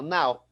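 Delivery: slow, letter by letter, N A O; N A O spelled out slowly; spelling it out. Shown as a demonstration. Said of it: "N A O".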